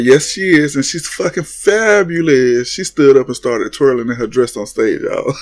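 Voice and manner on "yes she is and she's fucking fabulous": sassy New York. Retold or imitated. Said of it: "New York talking about".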